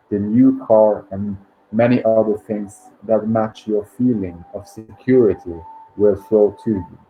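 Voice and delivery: measured book reading with pauses between phrases; meditation read-aloud. Acted. Host reads listeners a financial abundance meditation, measured read-aloud.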